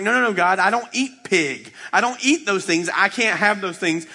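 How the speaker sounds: insistent protest. Acted. Peter refusing God over unclean food, insistent protest. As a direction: protest it, stressing each refusal.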